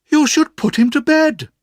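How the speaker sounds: put-on high, brisk old-lady voice; stern old aunt. A narrator's reading. Aunt orders the boy put to bed, high and brisk. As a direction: play the bossy aunt deciding. Aunt speaks to Mister Dick.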